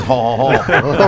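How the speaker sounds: mock French laugh. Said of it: "All he knows is".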